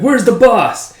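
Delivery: high, loud henchman question; villain goon. Acted. Gang member asks.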